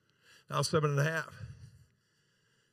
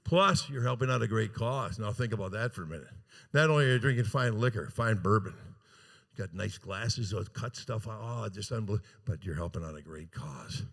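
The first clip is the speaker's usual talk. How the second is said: mock emotional; 4 semitones lower than usual. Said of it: "I'm getting kind of emotional".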